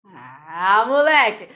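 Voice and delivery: loud, pleased cry of triumph; triumphant exclaim. Real, not acted. Teacher cheering the class's right answer, loud and triumphant. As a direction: celebrate the answer like a win.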